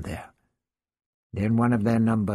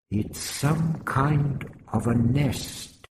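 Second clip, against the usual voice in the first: exclaimed; 3 semitones higher, much slower than usual. Acted. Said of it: "Vrestin exclaimed".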